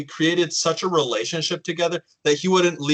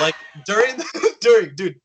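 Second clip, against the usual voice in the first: laughing; 4 semitones higher, 5 dB louder than usual. Real, not acted. Laughing while continuing story.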